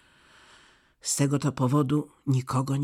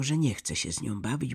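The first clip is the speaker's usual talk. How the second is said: ordinary delivery, nothing marked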